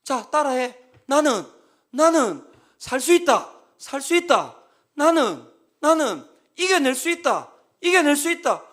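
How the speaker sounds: forceful shouted lines for him to repeat; loud commands. Retold or imitated. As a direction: bellow each phrase so he must echo it. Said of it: "계속 한 시간 반 동안 싸우는 거예요".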